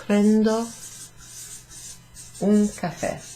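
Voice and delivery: Prendo un caffè, Prendo loud and high, caffè stressed on the last syllable; clear Italian model. Shown as a demonstration. Teacher voices the Italian order out loud, clear and emphatic. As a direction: model it crisply for learners to copy. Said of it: "I'll take a coffee".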